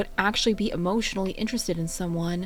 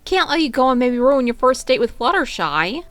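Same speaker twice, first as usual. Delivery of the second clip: smiling; 4 semitones higher, 8 dB louder than usual. A narrator's reading. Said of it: "she smiled".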